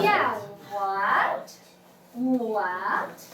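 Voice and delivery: "what" pitched low and rising; second tone demo. Shown as a demonstration. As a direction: let "what" climb from low. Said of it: "the second tone".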